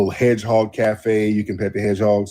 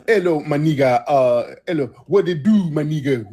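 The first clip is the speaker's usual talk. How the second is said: higher, playful imitation of a street hustler's slang; mock jive talk; 4 semitones higher than usual. Imitating Nigerian hustlers greeting him, mock jive talk. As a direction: lightly ham up a hustler's greeting. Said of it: "start trying to talk F B A Ebonics".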